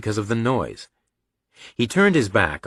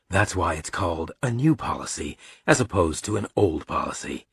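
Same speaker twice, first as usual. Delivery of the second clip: understated, matter-of-fact father voice; lightly voiced dad, explaining drily; dry father; 2 semitones lower, 3 dB quieter than usual. Father answering son's objection to new policy, dry.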